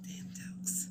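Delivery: whispered aside under the breath. Real, not acted. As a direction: mutter it in a whisper.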